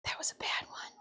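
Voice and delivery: unvoiced whisper to herself. Real, not acted. Muttering to herself over a dumpling, whispered. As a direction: breathe it out under her breath. Quiet remark while cooking.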